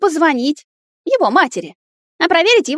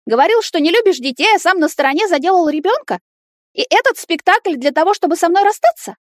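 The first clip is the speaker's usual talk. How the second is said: much higher, louder accusing tirade; furious rant; 11 semitones higher, 5 dB louder than usual. Acted. Nata accuses Timur of lying about the child, screaming. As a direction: hurl the accusations, outraged.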